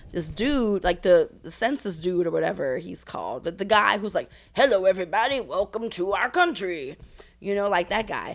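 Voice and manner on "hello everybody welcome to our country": mock French official's greeting; French accent. Census man greeting German immigrants, mock French accent. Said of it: "Is this your French accent".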